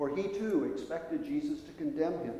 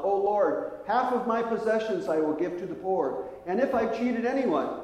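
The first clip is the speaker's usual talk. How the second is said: higher, louder eager outpouring; words tumbling out; 5 semitones higher, 3 dB louder than usual. Retold or imitated. Zacchaeus pouring out promises to Jesus, eager and raised. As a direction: blurt the promise before thinking. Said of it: "the words started to flow from his mouth".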